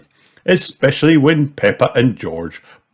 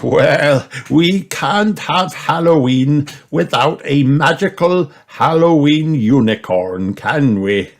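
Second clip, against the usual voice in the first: laughing; 7 semitones higher, 5 dB louder than usual. A narrator's reading. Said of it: "laughed Grandpa Pig".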